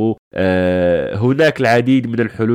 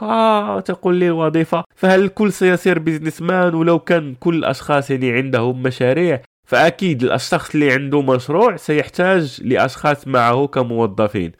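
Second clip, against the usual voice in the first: higher-pitched, mocking skeptic's voice; sarcastic mockery; 4 semitones higher than usual. A doubtful listener mocking the host's advice, sarcastic. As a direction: sneer the question back like a smug doubter. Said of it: "يعني، بتهكم ولا، يعني، باستهزاء".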